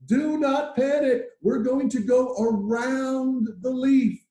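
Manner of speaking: high, slow put-on ant leader voice; a little bug calmly steadying the colony. Ant leader slowly calming the colony, in a high put-on voice. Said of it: "the leader comes out and he goes".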